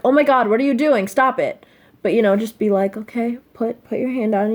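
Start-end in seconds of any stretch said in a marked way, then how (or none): 0.0-1.7 mock yell. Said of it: "Don't yell at me like". 3.0-4.5 soft, sweet and gentle. Retold or imitated. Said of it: "very sweet".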